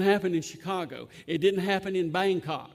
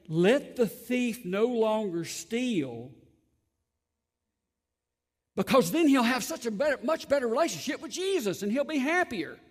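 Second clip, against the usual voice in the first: mock misquote; 5 semitones higher, 4 dB louder than usual. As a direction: lift it up like a false, syrupy version of the verse. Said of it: "It doesn't say".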